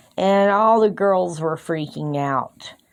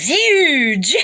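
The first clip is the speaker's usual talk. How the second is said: laughing disbelief; 9 semitones higher than usual. Real, not acted. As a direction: burst out laughing at the number. Shocked at lab result.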